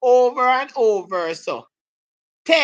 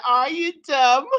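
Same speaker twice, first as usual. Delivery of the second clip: mock put-down; 5 semitones higher, 3 dB louder than usual. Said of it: "so I say".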